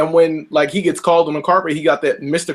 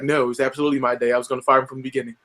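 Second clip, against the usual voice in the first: mock Trump; 4 semitones lower, 4 dB quieter, much faster than usual. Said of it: "he's like".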